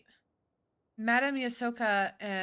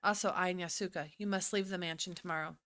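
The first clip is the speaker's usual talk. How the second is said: right character voice; 2 semitones lower than usual. Acted. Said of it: "wrong voice".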